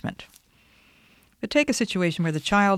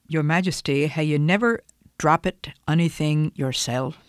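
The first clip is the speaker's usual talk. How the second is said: put-on a light, half-hearted Scottish accent she admits she can't do well; rolling a mild Scots brogue through the retort. The speaker imitates John Brown answering Queen Victoria in a mild Scottish accent. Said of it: "in his Scottish accent".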